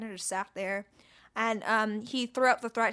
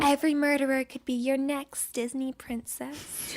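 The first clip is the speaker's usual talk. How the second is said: whisper; 3 semitones higher than usual. Acted. Whispered joke.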